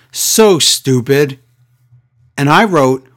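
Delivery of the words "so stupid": drawn-out mock taunt at half speed; lightly voiced Shane, very slow and deliberate; slow sneer. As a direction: stretch it out like a smug jab. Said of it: "And Shane goes".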